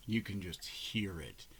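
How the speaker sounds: soft awed whisper; hushed whisper. Real, not acted. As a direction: breathe it out, barely voiced.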